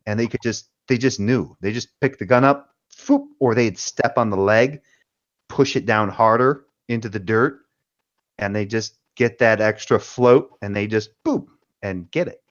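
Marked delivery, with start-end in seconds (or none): 2.9-3.3 quick mouth-made whoosh of a gun lifted; imitated foop. 11.2-11.5 short mouth-made pop for a quick nudge; imitated boop. Imitates nudging the gun over.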